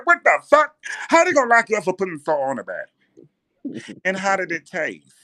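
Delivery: very high, loud outrage; outraged girlfriend voice. Acted. Girlfriend outraged about his arrest, high loud voice. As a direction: shriek the disbelief. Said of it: "she got a heavy voice".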